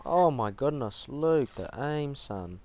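slow, stretched-out disbelief; drawn-out amazement. Real, not acted. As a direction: savour each word in awe. Marvels at teammate's aim.

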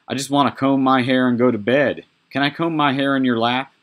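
light, sweet Mary voice; sweet young girl. Acted. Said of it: "Mary said".

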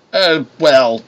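slow, hesitant "well"; slowly. A narrator's reading. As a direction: draw it out with slight hesitation. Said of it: "Broker said slowly".

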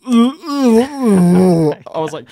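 high, loud laughing squeal; laugh-cry burst. Real, not acted. Recalling freaking out, bursting into high laughter. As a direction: break into a laugh mid-word.

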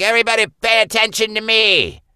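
attention-hungry cartoon dog; Ruff Ruffman voice. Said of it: "And here comes Ruff Ruffman".

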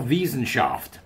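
"Wissenschaft" said the German way, with a V and a sh; "Wissenschaft" as vizenshaft; German sound in "Wissenschaft"; German pronunciation. Shown as a demonstration. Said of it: "excuse my German pronunciation".

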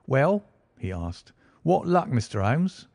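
a hint of a brisk, eager detective; Lestrade. Lestrade voiced by narrator.

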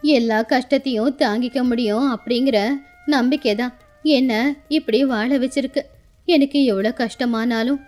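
lightly voiced stoic old woman; resilient old grandmother. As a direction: speak of hardship with patient resolve.

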